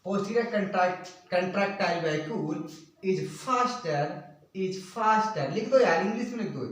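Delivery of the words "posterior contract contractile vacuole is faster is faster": slow, segmented English dictation; measured pace for note-takers. Real, not acted. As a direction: give it word by word.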